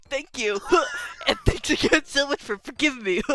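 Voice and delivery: character voice punctuated by little vocal noises; quirky verbal tic. Acted. Guest thanking hosts for soup, quirky tic between phrases. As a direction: thank them, punctuating phrases with an odd sound. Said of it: "where you got that little quirk".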